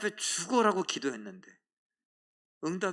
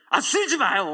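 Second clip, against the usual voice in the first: loud and high, calling out to stop him; mock call to stop; 7 semitones higher, 7 dB louder than usual. Wife calls out to her husband sweeping snow, loud and high. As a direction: shout it across the yard, higher and louder.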